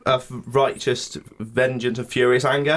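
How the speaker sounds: put-on slow, solemn Old Testament preacher; mock biblical prophet. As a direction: intone it like a wrathful prophet. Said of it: "when he goes".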